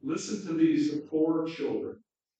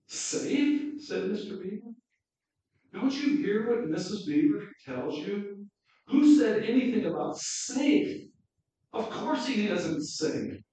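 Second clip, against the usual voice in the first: much higher, louder, incredulous outburst; indignant surprise; 7 semitones higher, 4 dB louder than usual. Acted. Mr Beaver scolding Lucy's question, high, loud and indignant. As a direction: scoff that anyone mentioned safe.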